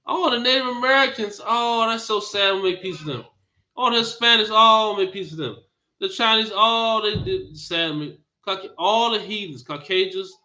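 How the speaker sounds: mock how they coo over other peoples; mock sympathy. Mocking others' pity for outsiders.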